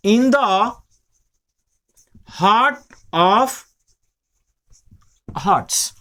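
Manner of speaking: each word spaced with long pauses; word-by-word dictation. Shown as a demonstration. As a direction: dictate it word by word as they write. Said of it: "तो हम लिख देंगे". (रुक-रुक कर लिखवाना)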